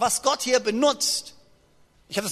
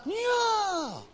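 mock Moses; 6 dB quieter, slower than usual. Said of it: "dass Mose sich gesagt hat".

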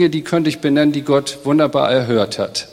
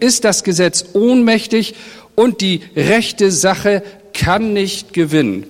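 raised, urgent quoting of Habakuk's complaint; pleading outcry, pitched higher; impassioned prophet lament; 4 semitones higher than usual. Retold or imitated. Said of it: "er sagt".

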